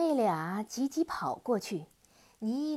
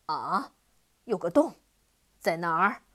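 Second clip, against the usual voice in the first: alarmed demon; 4 semitones lower, 7 dB louder than usual. Acted. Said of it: "黑蜂王急忙".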